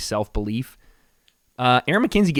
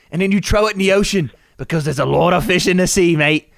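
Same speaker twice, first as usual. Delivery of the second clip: put-on higher, muddled Irish-British accent; the speaker's mock accent; 5 semitones higher, 5 dB louder than usual. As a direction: explain eagerly in a bad Irish brogue. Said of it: "I don't know what accent I'm doing".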